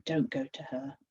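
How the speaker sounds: a sudden whispered plea; whispered warning. A narrator's reading. Fear whispering to Millie, urgent and hushed. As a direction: drop to a whisper to hold her back.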